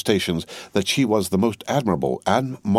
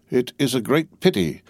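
mild croak; 5 semitones higher than usual. Acted. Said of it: "croaked Jacques three".

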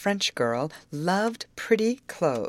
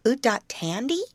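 put-on high doubtful small-child baby talk; Dodo; 7 semitones higher than usual. A narrator's reading. Small twin to Grace about candy, doubtful baby talk. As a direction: ask as a tiny child, high and unsure. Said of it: "looking doubtfully at Grace".

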